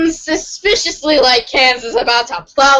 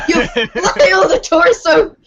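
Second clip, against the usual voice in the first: laughing; 4 semitones higher, slower than usual. Real, not acted. Reading silly battle move.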